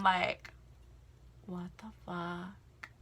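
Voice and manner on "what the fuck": shocked disbelief. Retold or imitated. Shocked reaction to racist remark.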